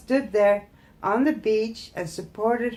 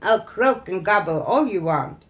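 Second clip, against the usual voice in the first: laughing witch; 5 dB louder than usual. Acted. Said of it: "Pomperipossa laughed".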